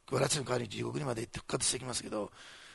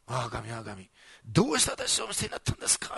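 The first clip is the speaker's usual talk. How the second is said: anguished outcry; 3 semitones lower than usual. Retold or imitated. Jesus crying out to God as he is forsaken, anguished outcry. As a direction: cry out the question as if forsaken. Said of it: "って絶唱するんですね".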